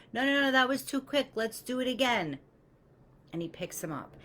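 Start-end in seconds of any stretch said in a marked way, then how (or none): 0.1-2.4 cheery teacher. Retold or imitated. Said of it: "the swim teacher's like".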